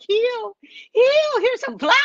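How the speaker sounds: high, soothing healer voice; gentle healer voice. Retold or imitated. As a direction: coo it like a healer. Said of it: "Ori Naturals is like".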